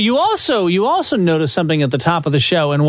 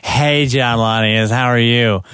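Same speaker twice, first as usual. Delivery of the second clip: slow, lower, deadpan hello; tired colleague greeting; 5 semitones lower, slower than usual. Retold or imitated. Host imitates a weary radio veteran's greeting. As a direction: drag the greeting out wearily. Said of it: "and exact tone".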